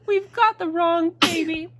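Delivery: loud high scream into alarmed cries; shriek, then wail the discovery slowly; high, loud storybook panic; both parents yelling. A narrator's reading. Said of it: "and they both yelled".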